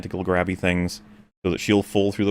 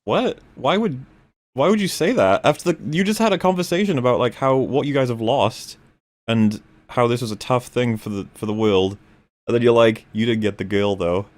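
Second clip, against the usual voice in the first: incredulous; 3 semitones higher than usual. Retold or imitated. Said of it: "And I was like".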